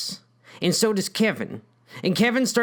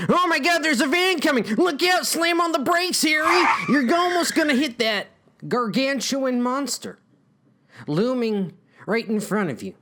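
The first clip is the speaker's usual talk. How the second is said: panicked shout; 7 semitones higher than usual. Acted. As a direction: scream a warning at the driver. Panicked warning of an oncoming van.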